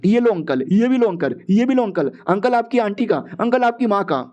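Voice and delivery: acted taunts, one per punch; fight taunts. Hero hitting uncle again and again, taunting. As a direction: pitch climbing with each acted blow.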